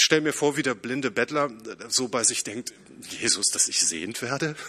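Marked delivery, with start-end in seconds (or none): 3.1-4.6 a mild incredulous rise, as if it were obvious; lightly voiced blind beggar, wondering why he is asked; incredulous question. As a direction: ask it like it goes without saying. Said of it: "mit einer anderen Betonung".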